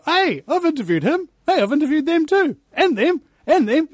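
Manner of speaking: high, gleeful pointing out; eager, rising voice spotting familiar faces; excited recognition. Retold or imitated. Host recalling his thrill at spotting his guests, excited.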